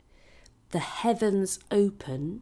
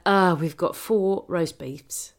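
mock French waiter; 4 dB louder, slower than usual. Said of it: "The British".

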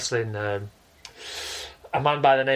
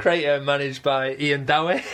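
slow repeat. Shown as a demonstration. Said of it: "say that sentence again for me".

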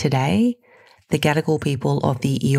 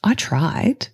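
reflective letter reading. Acted. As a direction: read it like a personal letter. Reads her letter to listener.

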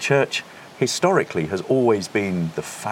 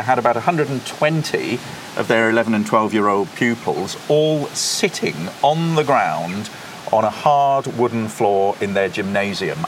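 usual speaking voice

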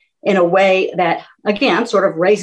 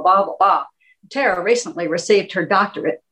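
wordy formal intro. Shown as a demonstration. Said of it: "I could say".

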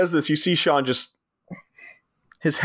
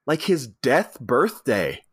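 slow stoner drawl; much slower than usual. Retold or imitated. Stoner line voiced slowly.

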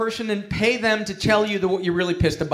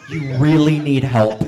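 mock angel; 3 semitones lower, 5 dB louder than usual. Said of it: "an angel came down and said".

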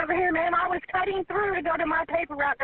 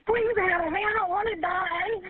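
real drawn-out pleading, afraid to die; frightened plea; slower than usual. Real, not acted. Trapped driver begs dispatcher for help, frightened plea. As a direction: plead for your life, dragging the words.

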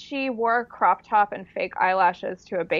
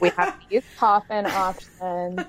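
slow, deadpan imitated funeral director; unhurried, dry mock sales pitch. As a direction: list options without any feeling. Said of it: "she's, like, so deadpan".

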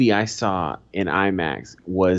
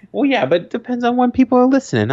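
high, fast laughing excuse; laughing defense; 14 semitones higher, 4 dB louder, faster than usual. Real, not acted. Explaining the date to co-host, high fast laughing. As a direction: defend yourself mid laugh.

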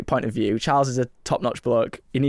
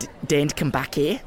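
put-on Liverpool accent; 4 dB quieter than usual. Waiter giving diner his tip, put-on Liverpool accent. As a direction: warn them off in put-on Scouse. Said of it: "sort out his accent".

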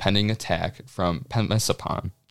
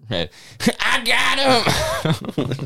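bad Irish accent; 11 semitones higher, much slower than usual. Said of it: "I can't do an Irish accent".

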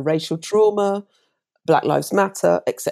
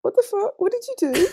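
shocked disbelief. Retold or imitated. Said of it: "I'm like".

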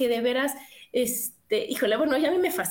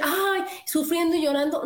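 lightly hammed-up whiny lament; a mild mock moan of sorrow; mock self-pity; 4 semitones higher than usual. Wife mocking couples who lament an empty nest, mock whine. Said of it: "y no decir".

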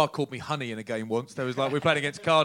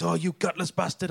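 mock sneer; 5 semitones higher than usual. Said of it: "and he goes".

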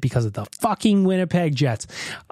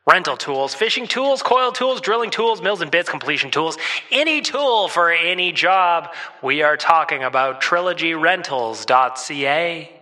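megaphone voice. Acted. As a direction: bark it like through a megaphone. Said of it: "hear me use my megaphone voice".

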